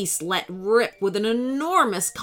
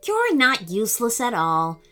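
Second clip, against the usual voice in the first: soothing. A narrator's reading. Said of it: "said Sir Connor soothingly".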